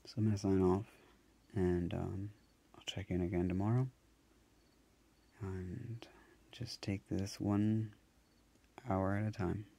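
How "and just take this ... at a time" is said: soft tearful whisper. Real, not acted. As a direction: whisper it, worn out. Tearful quiet sign-off.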